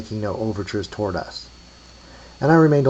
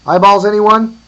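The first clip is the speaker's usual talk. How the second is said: high, loud vendor-like cry; called out; 11 semitones higher, 13 dB louder than usual. A narrator's reading. Offering eyeballs to the graveyard, calling out. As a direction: holler it to whoever is around. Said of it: "came a call".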